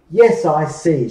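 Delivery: put-on shouting girl. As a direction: shout it as you push. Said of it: "Gretel shouted".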